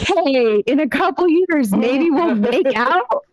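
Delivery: lightly flirty mock proposal; mock pickup line. Joking about friend breakups, lightly flirty tone.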